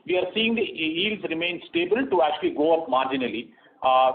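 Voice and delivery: normal talking voice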